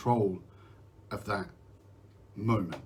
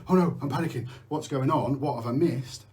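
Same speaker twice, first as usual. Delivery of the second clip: mock panic; 3 semitones higher than usual. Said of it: "So rather than going".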